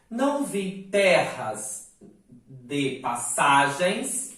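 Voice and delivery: "terras" and "passagens" hit harder, slowed; stressed syllables. Shown as a demonstration. Teacher showing students where the stress falls. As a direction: lean on "ter" and "sa" in "Não vi terras de passagens". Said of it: "marcar as sílabas acentuadas".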